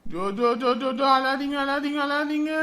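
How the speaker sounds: repetitive lulling coo; soothing a baby. Acted. Father lulling his crying baby, soothing. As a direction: hush the baby with little repeats.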